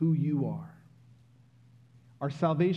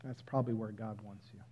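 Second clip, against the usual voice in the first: much softer, hushed quote; quoting mother gently; 6 semitones lower, 13 dB quieter, faster than usual. Retold or imitated. Mother gently telling her son he can't. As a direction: tell him softly, like a wise mother. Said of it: "She said".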